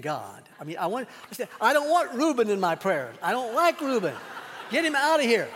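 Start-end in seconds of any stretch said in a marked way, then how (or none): 1.6-5.5 loud, high, half-laughing protest; frustrated prayer. Retold or imitated. Pastor venting to God about Reuben, mock-exasperated loud protest. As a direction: throw up your hands at God.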